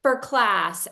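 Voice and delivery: loud, slow, high greeting. Retold or imitated. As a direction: boom it out slowly. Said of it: "and, like, being so loud".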